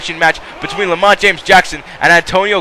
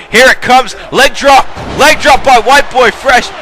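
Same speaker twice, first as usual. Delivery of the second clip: excited call; 4 semitones higher, slower than usual. Real, not acted. Commentator calling the leg drop, rising excitement. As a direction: sell the big move to the crowd.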